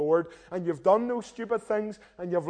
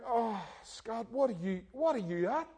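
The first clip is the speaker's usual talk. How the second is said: inner self-rebuke; 3 semitones higher, 7 dB quieter than usual. Retold or imitated. Inner voice scolding himself.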